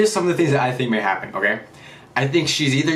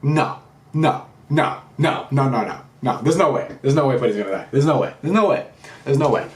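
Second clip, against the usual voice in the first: denial. Real, not acted. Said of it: "I refuse to believe it".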